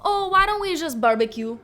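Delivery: light and carefree suggestion; imitating her mom. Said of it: "my mom would respond with".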